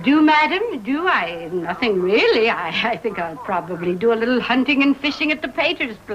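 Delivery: lightly mocking impression of her husband's stuffy manner; a hint of a pompous gentleman, teasing; imitating Harry. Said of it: "And I didn't say it like that".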